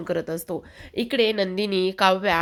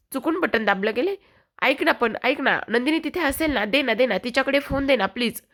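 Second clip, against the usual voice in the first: desperate pleading; 5 semitones higher than usual. Acted. Desperate husband begging for his wife.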